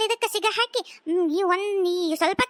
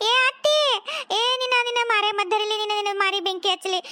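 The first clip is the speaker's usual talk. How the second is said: crying curse. Acted. Wife curses mother-in-law crying.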